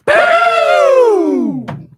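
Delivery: loud, high shout to end it. Acted. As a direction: slam the ending home. Closing line of outro bit.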